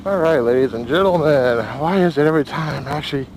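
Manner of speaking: talking inside a helmet in the wind. Real, not acted. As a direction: voice through helmet mic on a ride. Riding with helmet-mounted camera.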